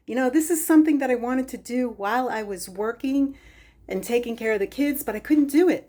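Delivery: breathless, puffing between words; out of breath. Real, not acted. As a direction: talk while winded from moving things. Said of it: "now that I'm out of breath".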